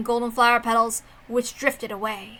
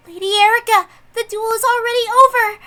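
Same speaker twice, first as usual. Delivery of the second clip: higher, louder urgent call across the room; 9 semitones higher, 6 dB louder than usual. Acted. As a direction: shout to stop her. Character calls out to Erica.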